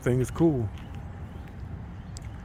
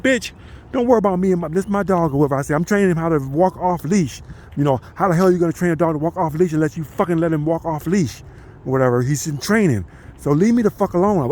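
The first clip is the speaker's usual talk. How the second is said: retold telling-off; 6 semitones higher than usual. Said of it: "I said it just like that".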